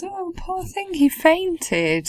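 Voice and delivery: put-on slow, very high, hollow sing-song sarcastic pity. Retelling a film character's reaction to a fainting victim: imitating sarcastic sympathy. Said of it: "she was sort of being pretty sarcastic".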